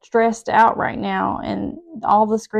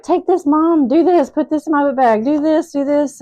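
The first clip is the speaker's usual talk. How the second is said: mimicking demanding daughter; 7 semitones higher, 7 dB louder than usual.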